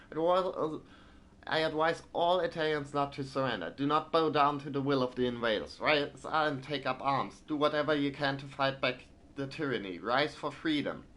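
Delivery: formal, rousing newspaper reading; editorial read-aloud. Acted. Gamer reading Italy's call to resist, formal editorial read. Reads the editorial without the accent.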